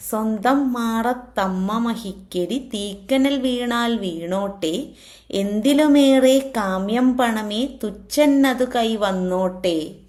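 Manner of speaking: poem recitation. Acted. Teacher reciting a verse on greed for money, poem recitation. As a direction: recite in metre, stretching the line endings.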